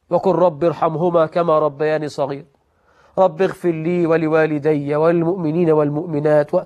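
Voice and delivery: simple, even recitation of a supplication; unaffected prayer. Shown as a demonstration. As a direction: recite it evenly, with no show. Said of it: "مفيش تكلف".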